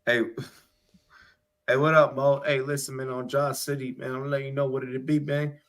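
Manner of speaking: laid-back Baltimore slang delivery; street Baltimore accent. Shown as a demonstration. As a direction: talk like a Baltimore corner regular. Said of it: "I'm gonna try and do, like, street Baltimore".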